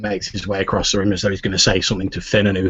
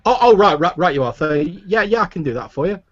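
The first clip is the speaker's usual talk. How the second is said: high, loud flustered lad; startled boy, pitched up; flustered stable boy; 9 semitones higher, 4 dB louder than usual. Acted.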